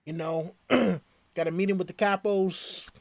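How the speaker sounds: put-on a lightly done Italian mobster accent, a bit quick. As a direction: play a movie wiseguy leaning on someone. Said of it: "they're always, Hey".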